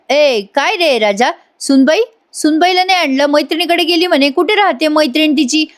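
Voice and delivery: father-in-law scolding Raja for coming back alone, mildly angry. Retold or imitated. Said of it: "अण्णा आता जरा चिडतातच".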